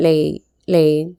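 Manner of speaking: ലേ first, then the full word ലൈൻ; sound-building demo. Shown as a demonstration. Teacher builds the word from its sounds for students, slowly and clearly. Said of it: "ഈ എല്ലിന് ഒരു എ sound കൊടുക്കാം".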